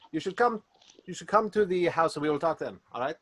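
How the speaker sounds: put-on French accent. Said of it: "that's the accent he has".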